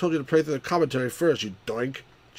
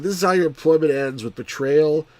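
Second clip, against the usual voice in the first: menacing line; 3 semitones higher, 5 dB louder than usual. Retold or imitated. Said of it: "He said".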